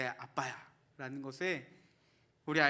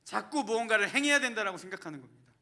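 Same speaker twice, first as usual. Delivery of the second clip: loud, high, driving sermon delivery; full-force preaching; 6 semitones higher, 8 dB louder than usual. Acted. Pastor urging the congregation not to earn grace, preaching loudly.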